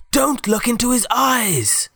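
high, slow urgent shout; shouting warning. Acted. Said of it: "shouted Alex".

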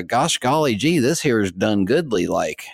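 put-on a deliberately terrible French accent that slips into folksy American; mock French accent gone hillbilly; bad French accent. Podcaster's joke French accent, purposely awful. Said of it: "in my best French accent".

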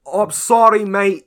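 put-on high, loud South African accent calling out; calling across the room. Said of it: "from across the room was like".

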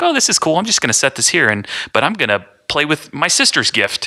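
playing a toddler brushing off his toy; little son's voice. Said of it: "he just sits there and is like".

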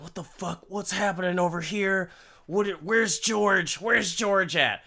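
mock indignant questioning; demanding wife. Acted angry wife demanding husband.

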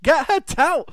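high, loud yell from the crowd; drunk fan shout. Retold or imitated. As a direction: bellow it like a fan at ringside. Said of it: "someone just shouted".

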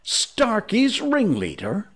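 high, slow, mock-sweet question; very pleasant. A narrator's reading. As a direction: draw it out sweetly, pitch way up. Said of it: "asked Hook more pleasantly than ever".

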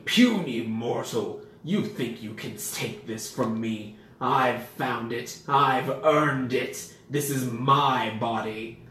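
slow booming monster taunt; dragon voice. Acted. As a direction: loom over them, slow and heavy.

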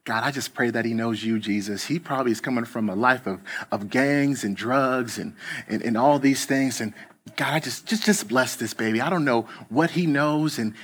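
put-on soft, quiet little old church lady praying; lightly voiced sweet Southern grandma, hushed prayer; gentle Southern lady praying over a stranger, soft and quiet. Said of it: "sweet Southern voice".

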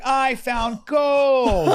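loud, slow, triumphant voice; mock triumphant. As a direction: drag it out like striking gold. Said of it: "And then you're like".

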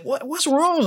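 retold high-pitched fussing over a baby; worried soothing. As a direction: gently ask a crying baby.

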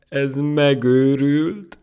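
very high, loud, drawn-out exclamation; hilarious disbelief. Acted. Monkey telling everyone the ant is crazy, mocking. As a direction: proclaim it to all around, incredulous. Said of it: "teli torokból nevetni kezdett".

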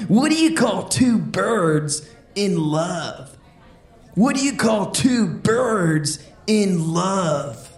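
a hint of a chill beach dude telling jokes; surfer dude voice. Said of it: "Let's keep it going for Sean the Surfer".

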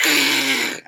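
sharp vampire-like hiss; imitated vampire hiss. Imitating club patrons shying from daylight, vampire hiss. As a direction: hiss like a vampire shrinking from light. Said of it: "like vampires".

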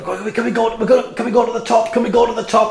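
put-on high, pleading little boy; eager child. Boy begging his mother to go upstairs, high eager pleading. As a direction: pester like an excited kid. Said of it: "he's got".

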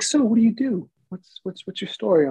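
high-pitched, eager questions; eager nurse. Retold or imitated. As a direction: nurse quizzing him while drawing blood, high and eager. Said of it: "she's like".

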